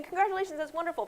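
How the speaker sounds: high, cheery congratulations; mock congratulations. Friend congratulating on Facebook, mock cheerful. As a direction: gush it brightly. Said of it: "instead of saying".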